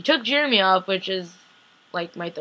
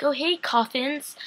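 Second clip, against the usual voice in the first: higher, slow, falsely bright; mock cheery; 6 semitones higher, slower than usual. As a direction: greet the coffins as if old friends. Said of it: "And then it's like".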